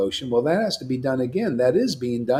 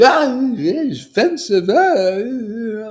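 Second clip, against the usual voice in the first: higher, louder mock-offended whine; mocking offended devotee; 6 semitones higher, 5 dB louder, much slower than usual. Preacher mimicking rival devotees, mock offended. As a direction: sneer their complaint back at them.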